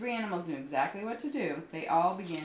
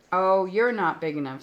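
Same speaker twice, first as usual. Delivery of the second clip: loud boast; 2 semitones higher, 11 dB louder than usual. Acted. Grouchy ladybug boasting.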